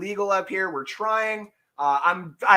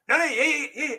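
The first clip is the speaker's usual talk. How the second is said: rising excitement; 10 semitones higher than usual. Retold or imitated. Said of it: "And I go".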